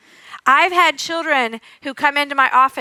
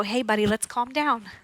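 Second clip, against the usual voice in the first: softer, soothing calm-down; calm shushing; 2 semitones lower, 7 dB quieter than usual. Retold or imitated. Therapist showing a calm-down that kids ignore, soft and soothing. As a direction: hush the kid gently. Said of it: "He's not gonna mirror that".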